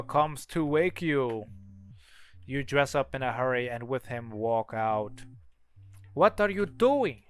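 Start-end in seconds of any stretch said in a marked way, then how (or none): 6.1-7.2 higher, louder, drawn-out challenge; startled questioning. Acted. Sibling to the other leaving at night, startled. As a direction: slowly demand an explanation, pitched up.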